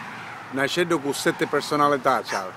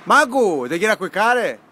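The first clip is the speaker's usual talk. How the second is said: Sicilian dialect. Real, not acted. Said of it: "E parla siciliano pure".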